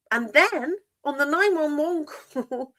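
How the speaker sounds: breaking into real laughter mid-phrase; giggling at how absurd it is; laughing. Real, not acted. Host to her chat, laughing at the ludicrous call. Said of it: "I'm sorry, I'm laughing".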